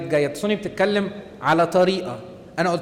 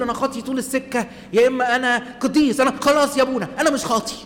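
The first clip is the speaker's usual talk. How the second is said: raised, louder mocking voice; mock extremes; 6 semitones higher, 4 dB louder than usual. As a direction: play both extremes, higher and louder. Mimics extreme self-views. (تقليد ساخر بصوت أعلى وأعلى)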